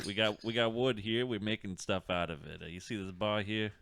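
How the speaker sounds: light put-on Brooklyn accent. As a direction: slip into a hint of Brooklyn. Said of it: "I got a Brook-, Brooklyn accent".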